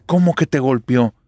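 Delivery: acted shocked question; shocked mother. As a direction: demand an explanation in alarm. Shocked mother reacts to being told.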